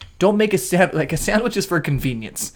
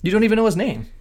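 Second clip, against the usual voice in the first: high, teasing disbelief; incredulous; 7 semitones higher, faster than usual. Real, not acted. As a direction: scoff at him, voice jumping up.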